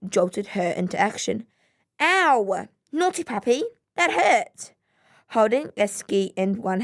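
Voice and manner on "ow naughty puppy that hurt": startled yelp. Acted. Bitten by puppy, cries out.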